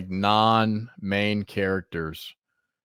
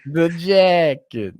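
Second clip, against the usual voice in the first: slow, louder, higher menacing echo; Richie quote; 6 semitones higher, 5 dB louder, much slower than usual. Retold or imitated. Echoing his cohost's Richie quote, slow menacing. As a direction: relish the threat slowly. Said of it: "echoing Richie line".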